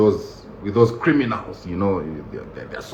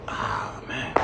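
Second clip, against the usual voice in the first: much lower, breathy ah, man; dismayed sigh; 8 semitones lower, 15 dB quieter than usual. Retold or imitated. Comic watching the deep search, deflated low sigh. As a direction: let it deflate in defeat. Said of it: "I'm sitting there like".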